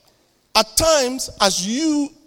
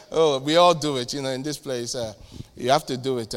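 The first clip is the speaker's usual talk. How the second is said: sheepish excuse; 6 semitones lower than usual. Acted. Acted colleague making excuses.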